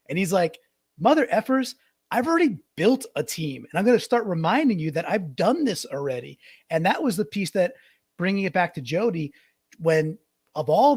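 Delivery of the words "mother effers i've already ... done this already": higher-pitched, mildly heated mock retort; salty. Team builder answering his critics, salty retort. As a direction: imitate a proud man hitting back at doubters. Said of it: "He was, he was salty".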